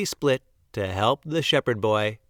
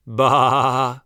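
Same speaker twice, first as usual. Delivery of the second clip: laughing sheep bleat; 5 dB louder than usual. A narrator's reading.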